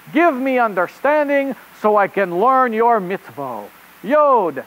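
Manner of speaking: put-on rabbit reporter in a hammy French accent; host a children's show in bad French-accented English; really bad French accent. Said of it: "with a really bad French".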